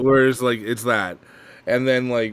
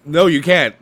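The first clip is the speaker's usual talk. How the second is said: indignant no; 6 semitones higher, 9 dB louder than usual. Real, not acted.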